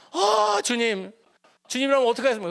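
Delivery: high cry of "아" then pleading prayer; anguished plea. Retold or imitated. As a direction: throw the desperate question up to the Lord. Father cries out to God.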